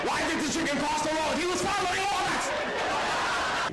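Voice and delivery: shouted joke. Acted.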